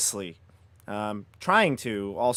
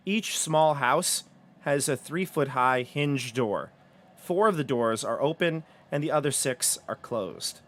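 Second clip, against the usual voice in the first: scene-setting read-aloud. Acted. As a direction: read out the room with deliberate phrasing. Game master reads room description.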